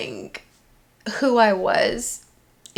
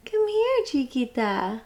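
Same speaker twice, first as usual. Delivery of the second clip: calling pet; 2 semitones higher than usual. Real, not acted. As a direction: lure the cat over sweetly. Calling the cat.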